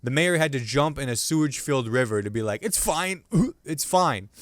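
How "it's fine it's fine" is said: high-pitched, unconvincing reassurance; hammed-up "everything's okay" in a higher voice; mock reassurance. Mayor insisting from a sewage-filled river, mock reassurance.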